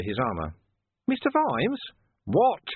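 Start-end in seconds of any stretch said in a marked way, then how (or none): 1.1-1.8 high, innocent sly call; sly villain. A narrator's reading. 2.2-2.6 sharp irritated snap; snapping. A narrator's reading. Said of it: "Vimes snapped".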